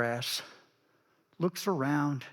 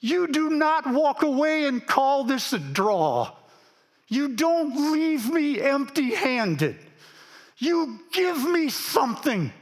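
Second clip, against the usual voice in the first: impassioned insistence; 6 semitones higher than usual. Acted. Jacob refusing the stranger, a passionate demand. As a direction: refuse to leave empty-handed, rising with fervour. Preacher voicing Jacob's defiant claim.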